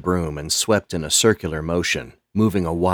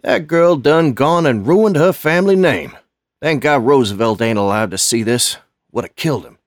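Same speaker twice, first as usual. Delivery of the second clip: much higher and louder, scolding lament; indignant old custodian; 8 semitones higher, 7 dB louder than usual. Acted. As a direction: shake your head at her shame.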